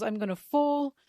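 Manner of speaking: half-yell it while retelling; mild mock yell. Nami tumbling backwards, mild mock yell. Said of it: "tumbles back and yells".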